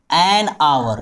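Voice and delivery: an hour with silent H, like "aur"; "An hour" spoken as "an aur", H dropped. Shown as a demonstration. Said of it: "अब आइए example देखें".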